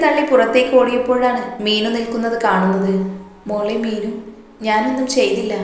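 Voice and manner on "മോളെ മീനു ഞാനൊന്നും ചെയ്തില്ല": soft tearful plea. Acted. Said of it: "ഇങ്ങനെ കരയാതെ".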